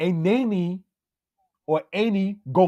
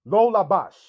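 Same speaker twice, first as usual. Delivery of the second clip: lo said before labash, louder; correct word order; 4 semitones higher, 4 dB louder than usual. Shown as a demonstration. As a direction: put lo in front of labash. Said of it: "You wouldn't say labash lo".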